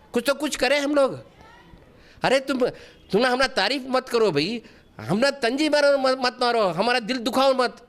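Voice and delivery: protesting to detractors, pitch lifted; exasperated appeal. Real, not acted. Exasperated appeal to his critics.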